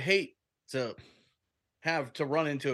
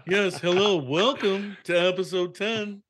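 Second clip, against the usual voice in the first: higher, slow pompous host voice; Blackbeard voice; 4 semitones higher, slower than usual. Pretend. Host opening episode ten as Blackbeard, pompous and slow. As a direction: welcome them grandly like a stuffy gentleman. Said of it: "talk like this for the rest of the podcast".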